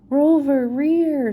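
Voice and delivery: Scooby buried under bats, barking back; Scooby dog bark. Acted. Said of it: "Scooby barked".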